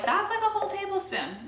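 high-pitched mock complaint from a commenter; nitpicking commenter. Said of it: "Don't come at me in the comments".

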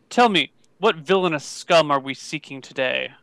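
low, measured huntsman voice; elite huntsman. Acted. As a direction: pitch it down like a grave hunter. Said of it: "the elite huntsman who can track".

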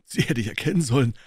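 high, loud enthusiastic praise; a fighter booming his admiration; loud, high and eager; hearty loud boxer. Acted. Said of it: "brüllte der Preisfechter".

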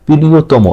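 প্রিয়তম ending in a clear "mo"; final o sound. Shown as a demonstration. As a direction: say প্রিয়তম with the last vowel as o. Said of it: "এই মটাকে ওকারের মতো". (প্রিয়তম-এর শেষে ও-কারের উচ্চারণ)

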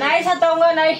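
loud forced promise; real loud, pressed reply. Real, not acted. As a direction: raise your voice after being scolded. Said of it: "जोर से नहीं बोल रहा".

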